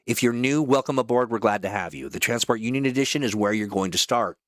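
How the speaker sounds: polished mission-briefing announcer; brief the crew like a game trailer; promo voice-over. Acted. Voice actor welcoming players to their next operation, announcer read.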